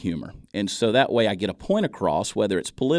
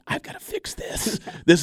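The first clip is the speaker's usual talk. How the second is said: squeaky falsetto; 9 semitones higher than usual. Retold or imitated. Retold shock at own recording.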